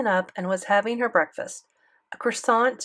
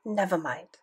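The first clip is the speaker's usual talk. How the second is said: French granny, loud on the end; French grandmother, dismissive; French accent; 2 semitones higher, 4 dB louder than usual. Acted. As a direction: say stupid the French way. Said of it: "The way she pronounced stupid was funny".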